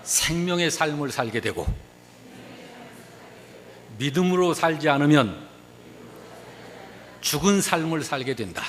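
feed each phrase firmly, pausing for the response; preacher leading a recitation; call-and-repeat lead. Shown as a demonstration. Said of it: "저를 한번 따라서 하십시다".

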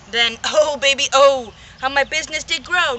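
put-on loud, gloating oh baby; swelling with glee; gleeful boast. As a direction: crow about the money rolling in. Boasting of booming business.

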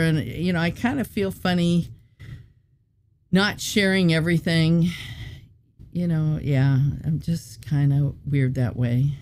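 talking while chewing gum; words around a wad of gum. Real, not acted. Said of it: "I'm trying to talk and chew gum at the same time here".

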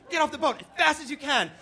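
high, urgent yell; freaking-out dad. Retold or imitated. Dad throwing life jackets at everyone, frantic shout. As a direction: shout the evacuation order in a panic. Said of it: "my dad's freaking out".

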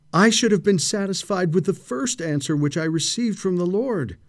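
despairing exclamation. Acted. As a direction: cry out in self-reproach, climbing in pitch. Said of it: "He exclaimed".

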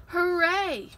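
high, loud cheer; excited yell. Acted. Cub spots the cool pool and yells, high excited cheer. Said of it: "yelled Little Bear".

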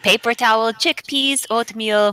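light put-on German accent. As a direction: read aloud with an attempted German accent. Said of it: "Everybody has to do their best German accent".

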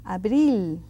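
"abril" with a strong I. Shown as a demonstration. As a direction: lean on the I in "abril". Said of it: "See that I is very strong".

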